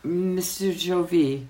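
put-on slow French-accented admonishment. Waitress interrupting her customer, slow French accent. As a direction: draw out the name in a French accent. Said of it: "my French was impeccable".

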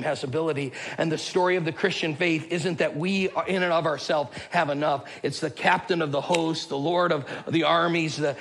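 emphatic, driving sermon delivery; fervent preaching. Real, not acted. Preacher urging the church not to be discouraged, fervent preaching. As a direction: preach it with steady, pressing conviction. Preaches the application with rising fervour.

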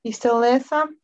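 choppy robotic call audio; words break up like a robot; robotic glitchy line. Real, not acted. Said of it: "you just sounded like a robot then".

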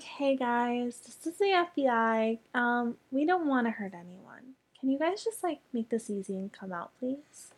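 friendly mock announcement, lilting up on the requests; very polite FBI. Imitating nice agents asking people to come out, very polite. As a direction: politely coax them out, ending on a rising please. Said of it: "they're actually very nice over the loudspeaker, very polite".

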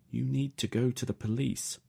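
mother urging her son. A narrator's reading. Mother voiced on phone.

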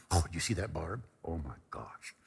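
low, soft, swooning murmur; smitten gushing. Retold or imitated. Roommate gushing about Barb while unpacking, soft smitten murmur. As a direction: imitate a lovestruck friend, hushed and low.

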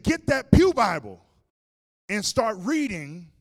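loud, high-pitched pastor's order; shouted command. Retold or imitated. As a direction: bellow urgent orders to your assistant. Pastor shouting orders during exorcism.

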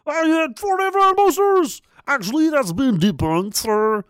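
high, slow, smug nerd voice repeating Snopes; hammed-up smug debunker; smug know-it-all voice. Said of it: "why you read it in that voice".

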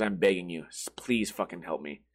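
low, soft retelling of begging; quietly quoted plea. Retold or imitated. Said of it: "he says the words".

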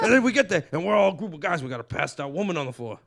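loud, high and laughing, easing back to plain; comic retelling Diaz's story, fading toward plain; Diaz riff, fading. Retold or imitated. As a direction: start booming then settle down.

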